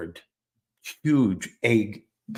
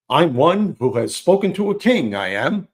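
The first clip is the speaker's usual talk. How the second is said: put-on a child actor's eager line, pitched higher; overenthusiastic line reading; 5 semitones higher, 6 dB louder than usual. Third grader on the wall greeting Alice, overeager. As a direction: belt the stage line out with too much zeal. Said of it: "I said it with a little bit too much enthusiasm".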